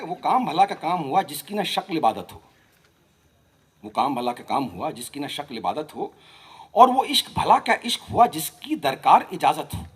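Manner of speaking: rhythmic, lilting verse recitation; poetry recital. Acted. Poet giving a playful reply to Faiz, rhythmic recital. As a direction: recite each line to a regular beat.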